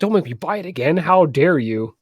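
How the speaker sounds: mock outrage. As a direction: act offended, hammed up. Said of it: "I was like".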